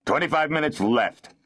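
implacable, official notice; impassive. A narrator's reading. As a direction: give the verdict without sympathy. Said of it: "the steward said impassively".

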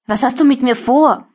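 a terrified captive asking her captor her fate; trembling frail voice. Acted. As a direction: ask weakly, barely holding together. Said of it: "Meine Stimme klingt zittrig und gebrechlich".

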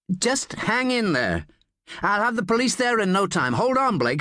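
high-pitched urgent encouragement; urgent reassurance. A narrator's reading. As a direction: urge him to hold on. Agent rallies a wounded caller.

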